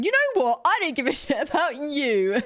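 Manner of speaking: playful yell at the manager; mock angry shout. Jokingly snapping at manager.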